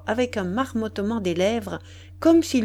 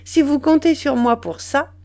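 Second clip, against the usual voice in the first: louder, lively protest; amused exclamation; 5 semitones higher, 6 dB louder than usual. A narrator's reading. Woman answering his cheeky demand, exclaiming with amusement. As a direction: exclaim it loudly, greatly tickled. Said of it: "Elle s'écria, très égayée".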